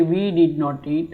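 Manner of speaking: very slow, each word spaced out; slow classroom model sentence; slow drill. Shown as a demonstration. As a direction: say it word by word for learners. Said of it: "நாங்கள் சாப்பிடவில்லை".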